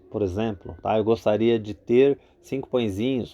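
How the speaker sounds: ordinary talk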